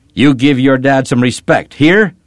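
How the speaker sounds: high, forceful scolding rising at the end; angry demand. A narrator's reading. Papa rises from his seat at his daughter, angry. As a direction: demand obedience, pushing the last word up. Father angrily demands respect.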